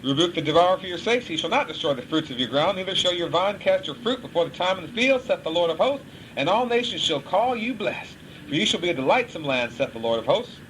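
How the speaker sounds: solemn scripture read; preacher reading the Bible aloud. Acted. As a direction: read the verses with weight.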